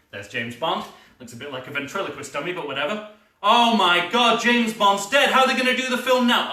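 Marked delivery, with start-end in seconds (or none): 3.4-6.5 higher, louder, fast alarm; shocked panic. Acted. Fan sees Bond killed, shocked and panicked. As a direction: gasp in disbelief.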